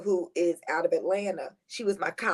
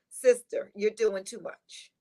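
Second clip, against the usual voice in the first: a hint of a firm, slow spiritual counselor, lightly done; Iyanla Vanzant voice; slower than usual. Friend holding her hands, lightly voicing a firm counselor. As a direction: gently call her sister, then slow down to scold. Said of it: "in my best Iyanla Vanzant voice".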